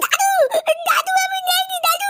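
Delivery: high, desperate cry of denial; pleading shout. Acted. A beaten boy pleads with grandpa in a high, desperate shout. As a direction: beg him to stop, voice cracking high.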